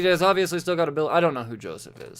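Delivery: exasperated aside; testy tone. Real, not acted. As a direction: let some exasperation slip into your tone. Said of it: "pardon my tone there".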